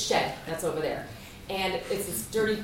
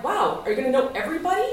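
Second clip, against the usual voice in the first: laughing disbelief; 5 semitones higher, 3 dB louder, faster than usual. Retold or imitated. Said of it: "Jonas is like".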